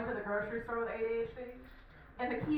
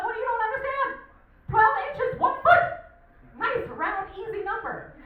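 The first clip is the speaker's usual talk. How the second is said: high, loud, incredulous rant; hammed-up exasperation, peaking in a high yell; exasperated shouting; 11 semitones higher, 9 dB louder than usual. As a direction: hammer it home to a baffled customer, voice way up. Acted exasperated argument with a customer.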